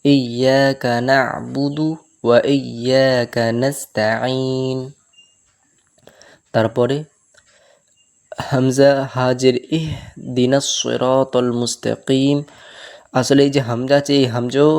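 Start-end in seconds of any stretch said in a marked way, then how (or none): 0.0-4.8 slow chanted recitation; tajweed-style chant; Quran recitation. Shown as a demonstration. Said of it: "recites Quran verse". 8.5-12.4 slow chanted recitation; measured recitation; Quran recitation. Shown as a demonstration. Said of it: "recites verse".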